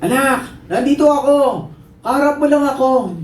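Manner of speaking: high urgent call; acted calling out to be located; shouting father. Father calling to his child on the roof, urgent shouting. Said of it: "biglang sumigaw".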